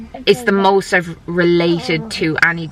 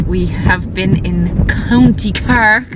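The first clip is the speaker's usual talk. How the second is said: slow, badly faked Cork accent; slower than usual. Mother vlogging on an Irish road trip, bad Cork accent. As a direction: draw out a terrible attempt at a Cork accent. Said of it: "That was a terrible accent".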